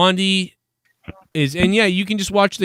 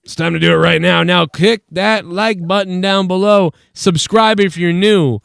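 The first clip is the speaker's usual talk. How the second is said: promo plug; 2 semitones higher, 3 dB louder than usual. Real, not acted. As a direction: stretch out each call to action. Host's plug to viewers.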